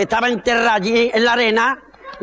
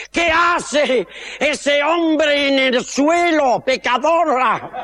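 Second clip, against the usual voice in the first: put-on drunk husband; 3 semitones higher, slower than usual. Drunk husband accuses wife.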